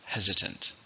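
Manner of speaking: "Hesitant" with the stress on HES; stress on first syllable. Shown as a demonstration. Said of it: "stress on the first".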